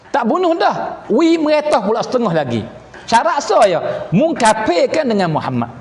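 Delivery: acted king's offer.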